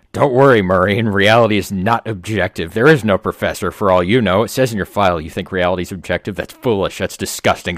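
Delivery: loud sneering taunt; taunting Examiner. Acted. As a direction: sneer at the prisoner.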